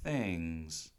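low, solemn mock-dramatic warning; mock brooding. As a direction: play the mysterious loner, fading down. Melodramatic brooding brush-off in retold scene.

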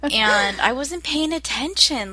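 whispered confession. Real, not acted. Sister admitting to her friend she wasn't paying attention, whispered. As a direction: breathe it out like a guilty secret.

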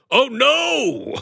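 squeaky high panicked Oh no; Kool-Aid Man panicking. Retold or imitated. Jug being dumped out, crying out in high panic. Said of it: "He's gonna go".

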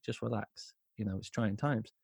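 soft, placating retold reassurance; soothing. Calming Matthew after the fight, soft and soothing. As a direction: talk him down quietly.

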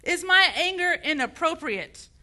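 heated rhetorical question from the pulpit. Real, not acted. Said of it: "Should I lower my voice?".

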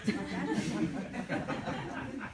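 slow words broken by laughter; laughing. Real, not acted. Author laughing at his own joke during the reading. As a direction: laugh your way through it.

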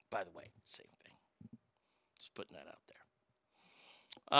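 hushed, slow whispered aside; whispering. Real, not acted. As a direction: whisper it like a secret. Unvoiced aside after loud line.

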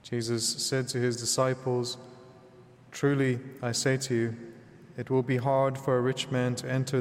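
solemn, measured scripture proclamation; Gospel reading. Acted. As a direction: proclaim it as at Mass.

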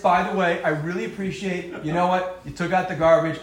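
sincere, plain appreciation; calm sincere thanks; genuine. Shown as a demonstration. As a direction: thank him honestly. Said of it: "But a genuine, honest".

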